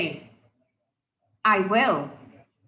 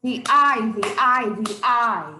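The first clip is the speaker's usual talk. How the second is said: The I punched loud, fading each time; stressed I sound; 6 dB louder than usual. Shown as a demonstration. Teacher pointing out alliteration, louder I sounds. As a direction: hit the I hard, then let it fade. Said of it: "every single word there".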